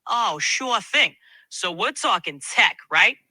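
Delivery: put-on a light Brooklyn accent, casual; lightly voiced Brooklyn tech guy. AI asked for a Brooklyn accent, light Brooklyn. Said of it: "now switch to a Brooklyn accent".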